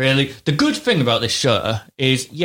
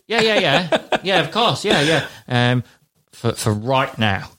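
giggling through yeah yeah, half-mocking; laughing agent; slower than usual. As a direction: laugh your way through the reply.

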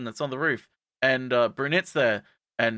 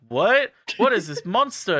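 high, loud disbelief; mock horror; 6 semitones higher, 4 dB louder than usual. Classmates hearing about the mystery attacker, mock horror. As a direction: exclaim it as if appalled.

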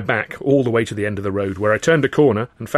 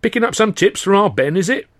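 teasing giant; 10 semitones higher, 4 dB louder than usual. Acted.

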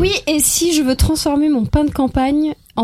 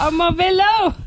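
put-on German accent; 5 semitones higher than usual. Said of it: "Il a l'accent allemand".

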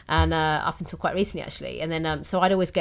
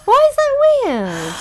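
laughing protest; 8 dB louder than usual. Real, not acted. Laughing defence of daddy's girl.

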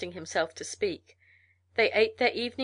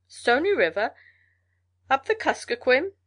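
surprised; 5 semitones higher, 6 dB louder than usual. A narrator's reading. Incredulous mail carrier.

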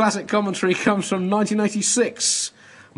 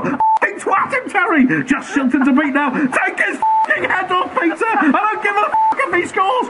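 much higher, frantic shouting at each defender; screaming commentator; 10 semitones higher than usual. Acted. Commentator screaming as Maradona beats England, in frantic hammed-up yelling. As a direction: rant like a fan watching disaster.

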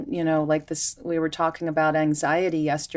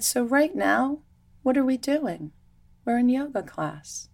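sing-song teacher voice; 8 semitones higher than usual. Retold or imitated. Teacher redirecting kids to the present.

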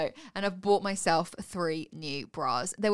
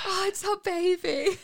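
hammed-up wistful cooing, higher and drawn out; mock longing; 9 semitones higher, slower than usual. Gazing at the scan screen, mock longing. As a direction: coo longingly as if at a baby. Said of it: "like, longingly".

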